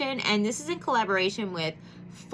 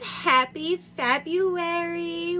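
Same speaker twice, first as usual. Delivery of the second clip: excited greeting; 9 semitones higher, 3 dB louder, much slower than usual. Real, not acted. Excited vlog greeting to viewers.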